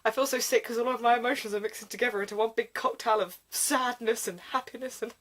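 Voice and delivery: hammed-up misery, trailing off quietly; mock wallowing. Reader mocking Ken's mixed emotions, mock wallowing. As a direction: sink into a feeble, pretend-sick whimper.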